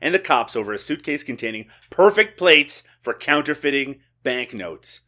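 light radio countdown host impression; a hint of syndicated radio presenter; Casey Kasem. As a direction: read it like a countdown announcer, stressing key phrases. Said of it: "I was doing my Casey Kasem".

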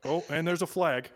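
lightly voiced sportscaster commentary; Joe Buck. Podcaster parodying Joe Buck narrating a cam site, mild announcer voice. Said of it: "then hear Joe Buck like".

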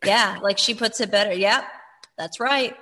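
understated yes-man agreeing along; agreeable Dale. Retold or imitated. Co-host imitating him echoing whatever she says, agreeable. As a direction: go along with everything in short, even replies. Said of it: "he's the Me Too man".

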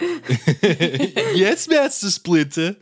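hammed-up Brooklyn accent, laughing through it; over-the-top Brooklyn accent. Shown as a demonstration. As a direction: lean hard into a cartoon Brooklyn accent. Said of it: "really over-exaggerated Brooklyn accent".

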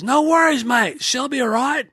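put-on relaxed Kiwi accent, no worries; New Zealand accent. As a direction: toss it off in a Kiwi accent, unbothered. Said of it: "And Laurie says".

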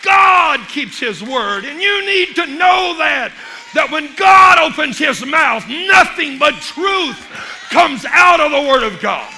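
roaring sermon climax; full-force preaching. Acted. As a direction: thunder it from the pulpit. Preacher climaxes after the joke.

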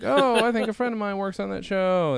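high-pitched mock English accent; imitated English accent. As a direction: put on a lofty English voice. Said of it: "That was his accent".

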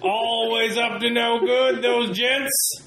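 lightly voiced old-timey gent; Stony Smithson voice. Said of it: "Stony Smithson here".

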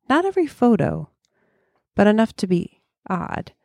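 measured first-person storytelling with deliberate pauses; story narration. Acted. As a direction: tell it like a spooky travel tale. Reads own story aloud.

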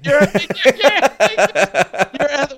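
loud laughing tease. Real, not acted. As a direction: crack up while teasing. Teasing, laughing loudly.

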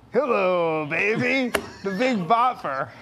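lightly voiced rock-and-roll catchphrase; radio showman greeting, lightly put on; a rock-and-roll singer's catchphrase. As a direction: draw out the hello and baby a little. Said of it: "I could do my rock-and-roll singer impression".

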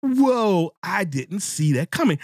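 high, startled whoa; mock surprise. Host acting out a reader hit by a twist, high surprise. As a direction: gasp it out like the twist caught you off guard. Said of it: "you're like".

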